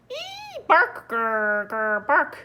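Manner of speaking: loud barks and growls, on guard; scared growling puppy. Acted. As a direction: growl and bark at unseen danger.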